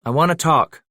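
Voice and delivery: high, loud outburst; bursting out. Acted. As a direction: let the words burst out. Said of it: "The words burst from Josiah's lips".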